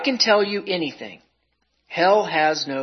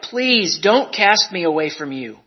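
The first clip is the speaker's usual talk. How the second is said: crying plea; 2 semitones higher, 5 dB louder than usual. Acted. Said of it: "I cried".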